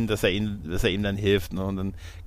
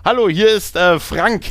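higher, louder mock radio call; hammed-up soldier on the radio; radio caller; 7 semitones higher, 6 dB louder than usual. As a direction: announce yourself over the radio, a bit unsure. Acting out radio call scene.

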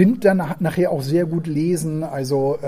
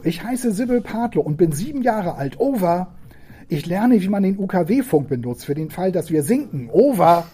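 put-on little girl's voice; 3 semitones higher than usual. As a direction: introduce yourself proudly as a seven-year-old. Girl introducing herself on radio.

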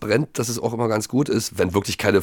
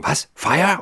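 higher, startled little question; imitating a frightened neighbour, pitched up; 7 semitones higher than usual. Japanese guest opening his door at the fire, startled question. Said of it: "fragte ganz erschrocken".

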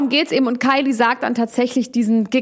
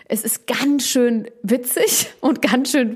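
giggling whisper; 3 semitones higher, slower than usual. Real, not acted. Laughing at the fight story.

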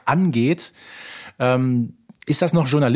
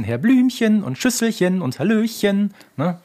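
affected, higher, slow sing-song voice; Carla Kolumna impression; 7 semitones higher, slower than usual. Podcaster mimics Carla Kolumna's affected sing-song, higher and slower. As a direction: put on a prissy sing-song lilt. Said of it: "affektierter und noch ein bisschen höher".

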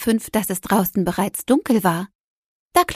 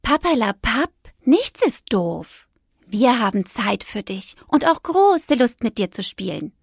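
lightly voiced perky toy, brushing off the gloom; a lightly put-on voice that cheers a child up; cheerful toy Dragana; 2 semitones higher than usual. Toy Dragana waves away Clara's sulking, lightly voiced and upbeat.

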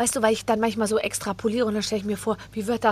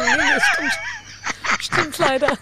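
laughing confession. Retold or imitated. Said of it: "Ich so".

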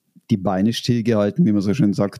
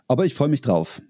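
hoarse, rough voice; 2 semitones higher than usual. Real, not acted. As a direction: talk through a sore throat. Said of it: "bis auf meine Stimme".

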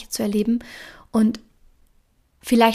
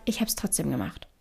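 soft whispered confession, barely voiced; 5 semitones lower, 8 dB quieter than usual. Shown as a demonstration. Podcaster whispering that she did it anyway, voiceless whisper. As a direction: breathe it like a secret. Repeated line, whispered first take.

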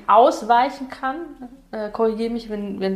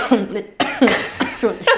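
just choked, clearing airway; choking on a drink; 4 semitones lower, faster than usual. Real, not acted. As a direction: speak right after choking on a drink. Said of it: "Ich hab mich verschluckt".

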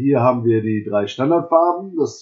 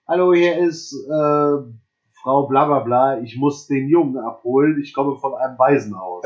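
higher, lightly feigned lady's voice; mock woman's voice; 3 semitones higher than usual. Woman at the door come to fetch a boy, mock feminine voice. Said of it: "wir hören eine Frauenstimme, die sagt".

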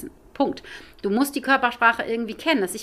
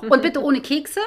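mock demands; 4 semitones higher, 3 dB louder than usual. Mocking owners' demands, laughing.

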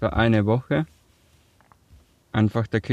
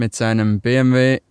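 B M W given deliberate emphasis; stress on B M W; 4 dB louder than usual. Real, not acted. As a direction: lean on the letters in "B M W". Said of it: "Warum betonst du das mit dem B M W".

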